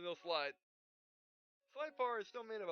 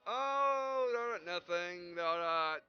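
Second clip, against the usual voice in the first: flustered; 7 dB louder, much slower than usual. Real, not acted. Flustered denial.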